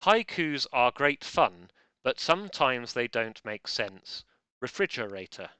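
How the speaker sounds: slow, deliberate haiku reading; reciting haiku. Shown as a demonstration. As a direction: read the haiku slowly, savouring each line. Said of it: "which goes something like".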